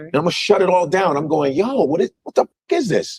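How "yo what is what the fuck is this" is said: retold angry outburst. Retold blow-up at date.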